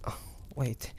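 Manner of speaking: breathless near-whisper; stunned hush. Acted. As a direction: voice drops away in shock. Hunter recognizes dead friend's pendant.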